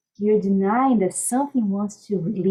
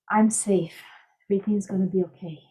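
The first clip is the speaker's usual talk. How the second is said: calming mantra; 3 dB quieter, faster than usual. Shown as a demonstration. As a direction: let it soothe whoever hears it. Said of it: "That's so calming, just hearing you say that".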